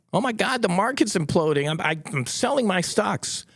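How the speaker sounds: a lightly hammed-up seller in a panic; mock panicked seller. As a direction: play the seller losing his nerve.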